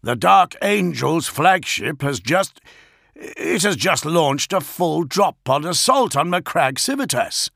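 high, urgent, halting at first; stumble, then push the alarming news out; disbelieving report. A narrator's reading. Augustin looks at Gilliman in disbelief, high and alarmed. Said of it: "in disbelief".

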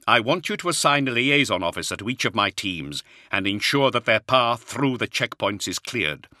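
lightly voiced commander reassuring an officer; commander Luther. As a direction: hand out orders with calm authority.

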